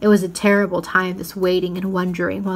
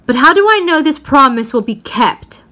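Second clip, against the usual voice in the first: higher, louder challenging question; suspicious witch; 6 semitones higher, 7 dB louder than usual. Acted. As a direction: throw the doubt back at him. Witch doubts Aslan's promise.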